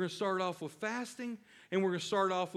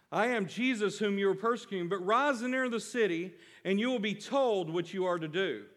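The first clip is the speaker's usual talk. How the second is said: voicing Jesus; 4 semitones higher, 3 dB louder than usual. Voicing Jesus, after imagining Saul's surprise.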